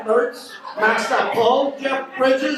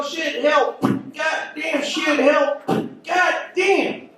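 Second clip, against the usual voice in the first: drunk cowboy mock yells; 4 semitones higher, much slower than usual. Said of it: "Everybody's walking around going".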